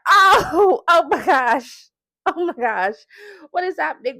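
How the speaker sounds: high pained cry, easing off; retold freak-out. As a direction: act out crying out at a sudden sharp pain. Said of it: "and, like, freaking out".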